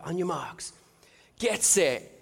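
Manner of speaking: measured starter's call, rising on "get set"; race starter call. Retold or imitated. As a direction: imitate a call at the blocks. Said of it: "get into the starting blocks".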